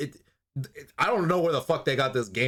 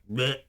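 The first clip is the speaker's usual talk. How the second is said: short mock monster noise; a quick cartoonish bleh; imitated creature bleh. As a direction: lightly imitate a lizard vampire's bleh. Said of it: "and then he's like".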